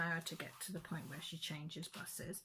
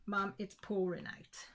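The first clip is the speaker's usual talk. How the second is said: mock yell; 3 semitones higher than usual. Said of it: "she yells".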